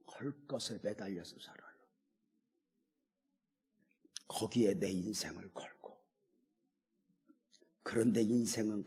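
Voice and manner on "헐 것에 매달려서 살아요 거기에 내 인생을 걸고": hushed whisper, much softer. Real, not acted. Preacher warns the saints they cling to passing things, whisper. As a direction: drop to a breath for the hard truth.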